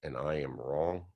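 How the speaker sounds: low, hushed, measured retelling; soft, weighty and sinking in pitch; solemn. Retold or imitated. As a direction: imitate a friend's grave admission, voice dropping away. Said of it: "he looked at me solemnly".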